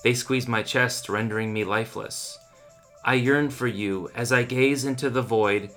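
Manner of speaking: solemn, mournful poem delivery; poem reading. Acted. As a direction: recite it like a grieving lover. Dramatic poem reading over music.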